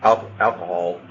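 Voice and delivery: lightly voiced formal server; measured waitress offer, slowing at the end; Wendy the waitress. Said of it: "I am Wendy".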